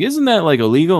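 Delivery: high, loud incredulous question; hammed-up alarmed query; mock disbelief. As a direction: imitate someone balking at a shady offer. Character questions an illegal sale.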